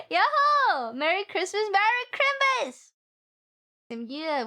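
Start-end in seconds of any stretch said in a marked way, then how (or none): 0.1-2.9 pirate cheer. Pretend.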